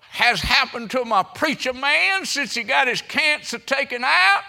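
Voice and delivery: high, loud lady's voice; retold exclaiming lady. Lady asking after her preacher, loud high voice. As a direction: call it out loudly from the doorway. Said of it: "She said".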